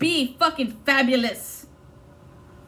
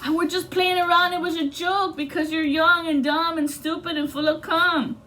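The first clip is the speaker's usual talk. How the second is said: higher, smug dismissal; mock jerk voice; 7 semitones higher than usual. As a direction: parody his excuses. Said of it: "fuck you to that girl".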